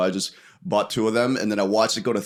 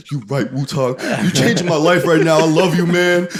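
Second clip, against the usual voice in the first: fired-up grateful friend; 6 semitones higher, 5 dB louder than usual. Retold or imitated. Friend quoted thanking him.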